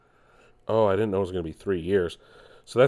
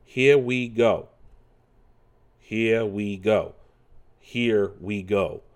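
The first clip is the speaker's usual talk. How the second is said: slow, r-less New York catchphrase; New York inflection; much slower than usual. Shown as a demonstration. Repeating Mario's line for viewers, New York inflection. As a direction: draw out "Here" like a New Yorker. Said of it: "New York inflection".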